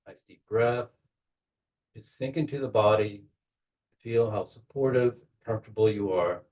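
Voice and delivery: measured guiding voice with long pauses; unhurried guide, pausing to let each image settle; guided meditation. Real, not acted. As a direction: talk them gently into a visualization, phrase by phrase. Leads a guided visualization.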